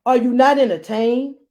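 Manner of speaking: mock gladiator challenge to the crowd; gladiator shout. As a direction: rouse the crowd.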